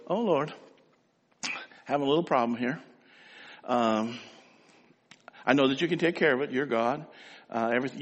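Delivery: a hint of breezy, offhand praying, quick and soft; mock casual prayer. Believers praying offhandedly before getting up, lightly mocked breezy prayer. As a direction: toss the problem to God and move on. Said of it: "we think what we should do is just go".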